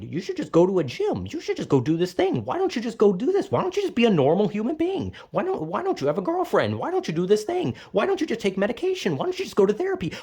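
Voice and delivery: sing-song mock voice, fast in places; mocking family advice. Mimicking relatives' advice in a sneering mock voice. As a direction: parody their empty advice. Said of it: "bullshit drivel of".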